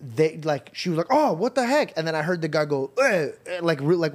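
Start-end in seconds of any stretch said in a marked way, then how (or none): 1.1-2.0 high-pitched mock outrage; retold indignation. Girlfriend backing out of store, indignant surprise. 3.0-3.3 imitated dismissive "eh"; grunt with attitude. Old man snapping at girlfriend, grunt with attitude. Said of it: "with attitude".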